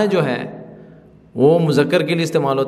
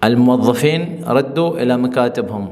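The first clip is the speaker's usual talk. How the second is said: slow model sentence. Shown as a demonstration. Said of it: "یہ جملہ بولا جاتا ہے".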